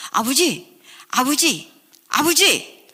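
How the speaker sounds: building to a high, loud cry; calling out. Retold or imitated. Child calling father at the door.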